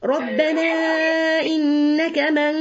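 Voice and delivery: slow, drawn-out tajweed chant; measured Quranic cantillation; Quran recitation. Acted. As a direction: recite the verse slowly and melodically. Quran verse recited in lesson.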